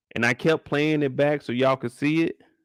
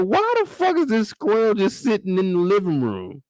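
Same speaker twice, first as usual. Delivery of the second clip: retold disbelief; 6 semitones higher than usual. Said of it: "I said".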